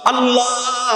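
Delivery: high, long-drawn "Allah"; calling out to God. Acted. Crying out to God in prayer. (উঁচু সুরে আল্লাহকে ডাক)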